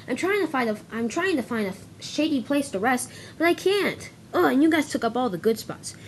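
a hint of a weary engine grumbling; tired engine. Flying Scotsman complains to narrow-gauge engines, lightly voiced and weary.

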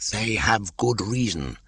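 high, slithery python voice; a wary old snake, curious; a lightly hissing old python; Kaa the python. Acted. Kaa's voice in reading.

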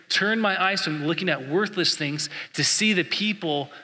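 "Turn my eyes from looking at worthless things" prayed to God, stressing "see"; prayer. Shown as a demonstration. Pastor praying the verse back to God, earnest plea. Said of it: "I challenge you to meditate on that".

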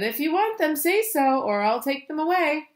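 high-pitched ultimatum; insistent little Rajani. A narrator's reading. Rajani warns he will take the clothes, high insistence.

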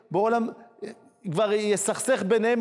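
ordinary talk

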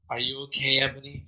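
softly asked with concern; lightly voiced gentle boyfriend; gently. A narrator's reading. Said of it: "Draco asked me gently".

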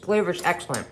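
talking with food in mouth; chewing while speaking; mouth full. Real, not acted. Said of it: "I have food in my mouth".

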